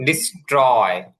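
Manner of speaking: ডিস্ট্রয় slowly, t said as plain ট not ঠ; soft t sound. Shown as a demonstration. Teacher demonstrates ডিস্ট্রয় for students, slow and careful. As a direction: draw out ডিস্ট্রয় with an unaspirated t. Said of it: "টয়ের মতন উচ্চারণ হবে".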